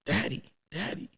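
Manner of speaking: put-on high, soft little-kid voice; small, high mimicked child call; delighted child. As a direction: imitate a child lighting up at Dad. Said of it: "When they see you, they light up".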